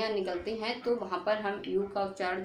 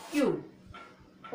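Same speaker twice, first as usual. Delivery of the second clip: क्यूट stretched very slowly, kyooot; very slow demo; much slower than usual. Shown as a demonstration. Teacher repeats the word slowly for students. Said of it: "क्या पढ़ेंगे?".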